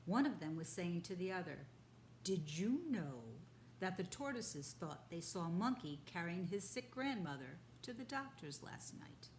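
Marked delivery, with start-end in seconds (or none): 2.2-9.3 a boar sharing a secret rumour; gossiping boar. Acted. Boar gossiping to the other boar, hushed.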